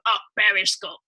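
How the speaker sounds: lightly imitated Russian submarine accent. Imitating Russians on a movie submarine, mock Russian accent. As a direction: mimic a movie Russian's accent calling a command. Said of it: "they always have the Russians".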